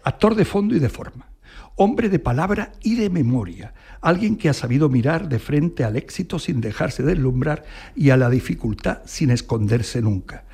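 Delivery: measured, deliberate read-aloud, pausing between phrases; formal tribute reading. Acted. Host reads the AI's tribute to a guest, measured formal reading.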